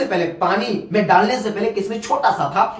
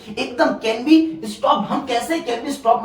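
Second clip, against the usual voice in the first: can be stop said slowly and deliberately; slow emphasis; 4 semitones higher, much slower than usual. Shown as a demonstration. Teacher stressing the textbook phrase to students, slow. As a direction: drag out can be stop for effect. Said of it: "मतलब हम कैसे स्टॉप कर सकते हैं".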